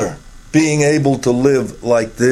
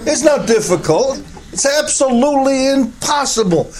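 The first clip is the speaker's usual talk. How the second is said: laughing correction; 10 semitones higher than usual. Retold or imitated. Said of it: "And I say".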